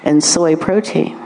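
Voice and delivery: slow, measured server's pitch, lifting on the offer; caterer's serving voice. Acted. Caterer offering quiche to a guest, polite serving voice. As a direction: offer the tray like an earnest caterer. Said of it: "Did you say it with that tone".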